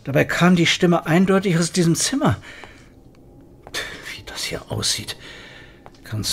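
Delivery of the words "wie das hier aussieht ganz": soft, low whisper. Acted. Detective entering the strange room, whispering to himself. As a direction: murmur in awe.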